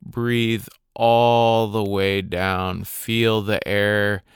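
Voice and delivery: calm, unhurried meditation guide with long pauses; guided meditation. Acted. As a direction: guide listeners gently through their breathing, leaving space between phrases.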